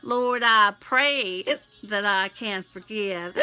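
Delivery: pleading, prayerful read; heartfelt prayer. Acted. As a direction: pour it out to God in prayer. Spoken prayer to God.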